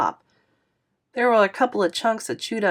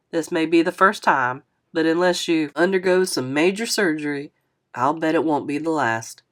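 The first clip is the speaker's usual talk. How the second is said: lightly voiced older man; 2 semitones lower than usual. Narrator voices Mister Lewis.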